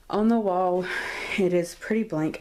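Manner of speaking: breathless, pregnant and winded; out of breath. Real, not acted. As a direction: speak short of breath. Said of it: "I'm sorry I'm out of breath".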